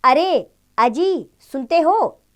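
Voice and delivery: a wife calling to her husband from afar. Shown as a demonstration. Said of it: "संबंध बोधक शब्द होते हैं".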